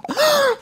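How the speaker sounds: high pretend gasp; theatrical gasp; mock gasp. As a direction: gasp in hammed-up shock. Mock shock at Spanish blood.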